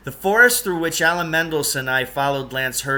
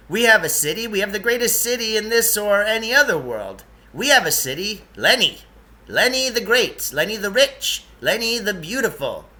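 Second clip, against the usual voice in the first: grand, proud proclamation, higher and louder; proud boast; 7 semitones higher, 4 dB louder than usual. Acted. Lance boasting of Lenny to the boys, proud proclamation. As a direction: trumpet the city's glory.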